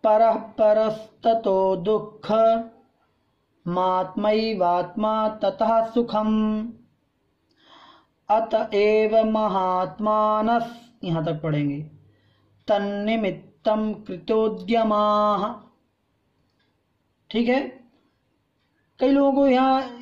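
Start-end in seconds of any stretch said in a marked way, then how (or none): 0.0-10.9 slow metrical Sanskrit chant; slow shloka recitation; rhythmic recitation. Shown as a demonstration. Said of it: "पूरा पढ़ते हैं लय के साथ।". 12.7-15.5 slow measured end of the verse; slow chanted line; rhythmic recitation. Shown as a demonstration. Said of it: "पूरा पढ़ते हैं लय के साथ।".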